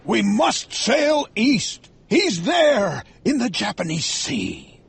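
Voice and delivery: slow, high-pitched captain's command; urgent, drawn-out captain's cry; shouted. A narrator's reading. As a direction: shout it out word by word. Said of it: "shouted Ahab".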